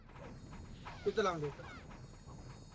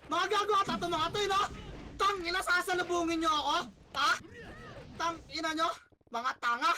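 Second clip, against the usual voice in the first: real frustrated yell mid-game; angry yelling at teammates. Real, not acted. Teammates walking into him, cursing.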